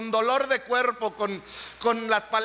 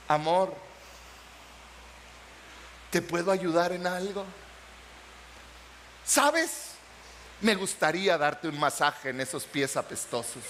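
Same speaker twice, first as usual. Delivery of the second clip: tender offer to husband; 7 semitones lower, 4 dB quieter than usual. Retold or imitated. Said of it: "y le dices".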